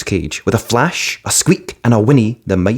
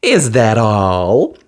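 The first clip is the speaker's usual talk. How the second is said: exclaiming; much slower than usual. A narrator's reading. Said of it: "exclaimed the fairy".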